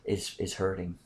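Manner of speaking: soft, low, voiced imitation of a whisper; retold whisper. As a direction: quietly confide it, imitating a whispered aside. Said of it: "then she whispers to me".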